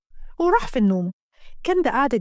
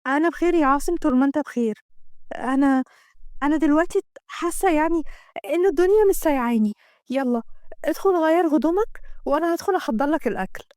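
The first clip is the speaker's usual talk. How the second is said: lightly acted adoring woman; a hint of a smitten heroine; devoted woman in love; 3 semitones higher than usual. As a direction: confess happiness with a slight lift.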